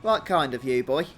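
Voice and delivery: hearty character, pleasantly surprised by a gift; lilting, lightly acted thanks to a young helper; lightly voiced game character. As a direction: play a grateful would-be fisherman. Reads game character Ruxel's dialogue aloud.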